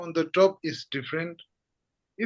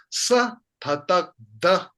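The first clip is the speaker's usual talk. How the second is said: quick read; 4 dB louder than usual. Shown as a demonstration. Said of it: "And if I read it quick".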